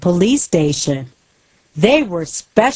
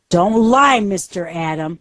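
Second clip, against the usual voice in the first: angry. Acted. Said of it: "said Viger angrily".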